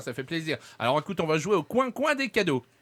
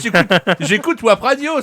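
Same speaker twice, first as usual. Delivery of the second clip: cheerful station plug; 3 semitones higher, 11 dB louder than usual. Shown as a demonstration. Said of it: "il aurait fallu que tu me dises".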